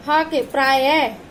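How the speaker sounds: प्राय said slowly, ending in a breathy ह sound; slow प्राय, letting the visarga breathe out like ह. Shown as a demonstration. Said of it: "इसका उच्चारण हा के समान होता है". (प्राय को धीरे बोलें, विसर्ग की ह जैसी आवाज़)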